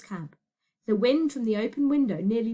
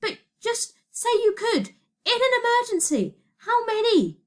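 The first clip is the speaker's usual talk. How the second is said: high, insistent raised voice; urgent pleading shout; 12 semitones higher, 4 dB louder than usual. Acted. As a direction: press for an answer urgently, pitched high. Shouted argument on runaway train.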